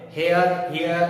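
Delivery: हेयर, हेयर with the h sounded, the mistaken way; हेयर twice, h voiced; wrong hair. Shown as a demonstration. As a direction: repeat हेयर with an audible h. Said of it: "ऐसा कुछ नहीं होगा".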